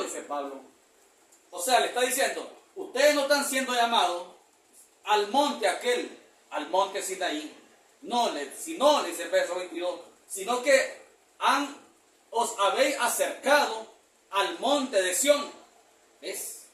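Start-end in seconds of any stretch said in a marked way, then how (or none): 2.8-7.6 drawn-out, deliberate reading; slow scripture reading. Acted. Preacher slowly reading Hebrews to the congregation. 10.3-15.5 drawn-out, deliberate reading; slow scripture reading. Acted. Preacher slowly reading Hebrews to the congregation.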